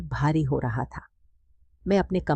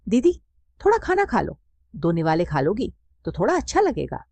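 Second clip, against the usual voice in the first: higher, gently coaxing aunt's voice; aunt pleading with the widowed mother to eat, coaxing and higher; 4 semitones higher than usual. Acted. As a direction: coax your grieving sister into eating a little. Aunt coaxing grieving sister to eat.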